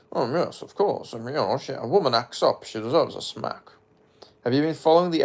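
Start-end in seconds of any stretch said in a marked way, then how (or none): 0.1-3.7 exaggerated Scottish accent, swooping up and down; hammed-up Scottish burr with bouncing pitch; Sean Connery. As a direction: imitate a lilting Scottish film star. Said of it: "that interview with Sean Connery".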